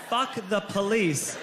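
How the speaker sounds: put-on drunk toddler yell. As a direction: yell it like a tipsy kid.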